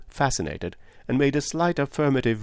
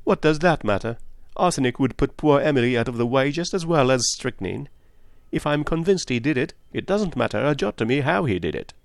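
higher, insistent woman, lightly voiced; Miss Howard; 5 semitones higher than usual. Woman waves away the detective's correction, insistently. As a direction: brush the objection aside.

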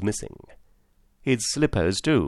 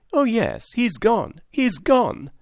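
hysterical laughing; 13 semitones higher, slower than usual. A narrator's reading. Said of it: "shriek after shriek of laughter".

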